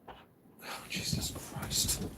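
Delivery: hushed, slow under-breath plea; muttered prayer. Real, not acted. Speaker quietly talking to Jesus, hushed. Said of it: "I just talked to Jesus".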